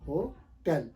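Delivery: "होटल" said slowly as ho-TEL; correct pronunciation. Shown as a demonstration. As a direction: open e in the last syllable of होटल. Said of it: "Actually ये word है होटल".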